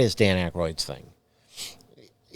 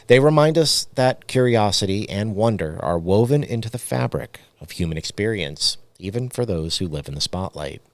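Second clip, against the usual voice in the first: reading a script aloud; spooky documentary read; podcast narration. Acted. Reads scripted closing segment.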